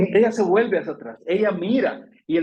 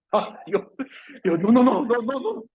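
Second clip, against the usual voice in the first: put-on high, louder no no no of a caught child; pleading denial; 7 semitones higher, 3 dB louder than usual. Child denying to an accusing mother: high pleading protest. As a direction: protest your innocence to a parent.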